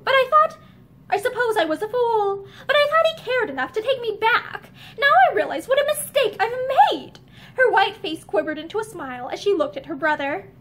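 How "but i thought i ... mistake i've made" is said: rising anguish. Acted. Linda's rising bitter confession.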